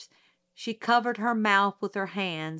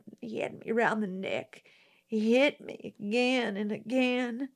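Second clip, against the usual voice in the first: put-on nervous country girl. Mayella's testimony of attack.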